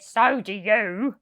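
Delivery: slow, loud crook's jab; gruff retort. Acted. Hugh retorting to Len, slow and gruff. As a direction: snap back at Len slowly. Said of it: "And Hugh said".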